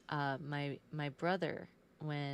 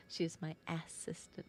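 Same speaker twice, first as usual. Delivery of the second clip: whispered aside; 5 dB quieter than usual. Real, not acted.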